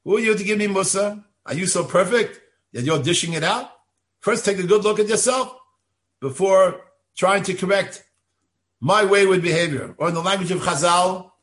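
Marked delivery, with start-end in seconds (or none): 0.0-9.9 indignant defensiveness. Retold or imitated. Voicing an indignant recipient of rebuke.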